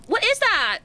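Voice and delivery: sudden shock in the voice; startled. Real, not acted. Repeat, startled, higher.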